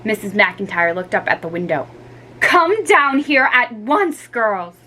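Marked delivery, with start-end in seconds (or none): 2.4-4.8 louder, slow stern command. Acted. Mother orders the girls down, stern. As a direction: order them down firmly. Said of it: "she said sternly".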